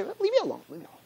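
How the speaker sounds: high then fading to nothing; mock dismissive plea. People brushing off God, mock whining. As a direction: brush it off, trailing away. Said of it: "and we say".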